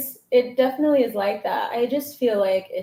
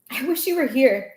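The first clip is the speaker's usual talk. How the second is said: laughing; 6 semitones higher, 5 dB louder than usual. Real, not acted. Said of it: "it's that intonation".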